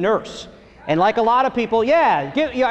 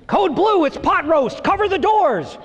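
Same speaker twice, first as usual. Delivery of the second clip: ER nurse emergency call; 7 semitones higher than usual. Retold or imitated. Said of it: "She'd be like".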